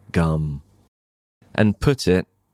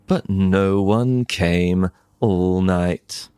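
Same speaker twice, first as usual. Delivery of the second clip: ordinary delivery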